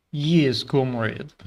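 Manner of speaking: short try at a Russian accent. Shown as a demonstration. Streamer warming up for an accent challenge, Russian accent. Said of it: "I can do a decent Russian accent".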